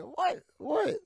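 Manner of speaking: very high, loud squeaky "what"; hammed-up shocked reaction; mock disbelief. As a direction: shoot way up in pitch, baffled. Acting out own reaction to dad.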